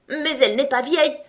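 high, loud indignant fury; furious cry. A narrator's reading. Tweedledum defending his rattle to Alice, furious. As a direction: shout it in a tantrum. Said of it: "cria Bonnet Blanc plus furieux que jamais".

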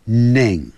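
Ning said alone, clear and ringing; isolated syllable. Shown as a demonstration. Teacher isolating the ending of morning for learners. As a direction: pull out the syllable Ning by itself. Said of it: "不是morning哈".

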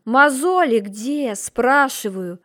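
loud, slow growl. A narrator's reading. Margrave demanding the calluses, loud slow growl. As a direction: growl the question like a beast. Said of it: "рычал марграф".

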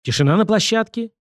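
high-pitched call for order; squealed command. A narrator's reading. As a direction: mildly shriek it at the whole film crew. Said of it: "взвизгнул режиссёр". (визгливый окрик режиссёра)

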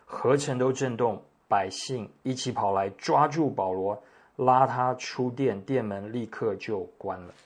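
clear, measured reading aloud to a congregation; scripture reading. A narrator's reading. Pastor reads today's passage to the congregation, scripture reading. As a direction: read the passage out with formal, lively phrasing.

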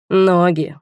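Ноги drawled with dreamy pleasure. A narrator's reading. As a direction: stretch Ноги out dreamily, falling. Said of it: "мечтательно протянул он".

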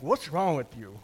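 a blunt, accusing question; harsh approach. Shown as a demonstration. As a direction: confront him bluntly. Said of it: "How we approach somebody is very important in a conflict".

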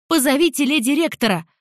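shouting for help. Acted. A frightened girl shouts for the rector, alarmed high cry. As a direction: call out in alarm. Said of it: "снова закричала девчонка".

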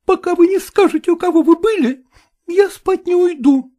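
high woman's voice, cutting him off; curt jealous wife. A narrator's reading. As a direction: snap it back high and firm. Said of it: "отрезала Гликерия Николаевна". (резко, высоким женским голосом)

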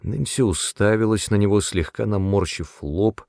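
plain reading voice

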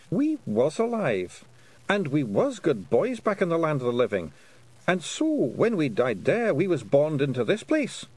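high, gruff little Scottish warrior; Scottish pixie voice. Acted. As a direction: play a cheerful wee Scots fighter. Rob Anybody explains.

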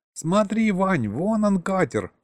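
a high excited squeal, slowed down. Acted. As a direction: squeal with excitement pointing out the ship. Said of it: "взвизгнул Гришка".

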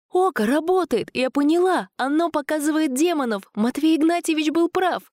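high, overwrought rush; excited. A narrator's reading. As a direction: blurt it out shaken. Sveta shaken after escaping.

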